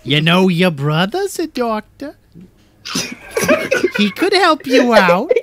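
lightly put-on New York Jewish accent. Advising Johnny on the poisoning, New York Jewish accent. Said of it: "full Brooklyn to straight Jew".

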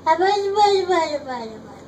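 high, loud buzz; buzzing bee. Acted. Reading Dr. Seuss to sister, buzzing bee. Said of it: "Mister Brown can buzz".

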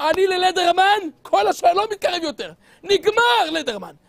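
high, loud defiant vow, slowing at the end; loud resolve. Acted. Young man vowing to himself, loud and defiant. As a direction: declare it like an oath.

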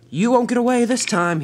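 loud, high villain threat; full-voiced storybook baddie; menacing villain. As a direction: call a threat after fleeing prey. Villain Diesel threatens as he chases.

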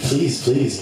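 mock desperate pleading; last-ditch plea. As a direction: beg as a final desperate attempt. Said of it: "like, last ditch effort".

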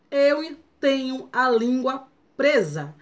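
slow lisp on presa; tongue-tied lisp, presa slushy. Real, not acted.

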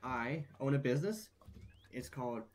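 put-on country accent. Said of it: "I'm losing my country accent as I speak".

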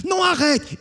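very high, loud anguished howl. Acted. Jean watching his book torn, anguished howl. Page thrown in fire.

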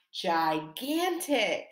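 gigantic drawn out slowly, each syllable clear; modelled word. Shown as a demonstration. Teacher to class, modelling a new word: slow and clear. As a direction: stretch out gigantic so children can copy it. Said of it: "You say it".

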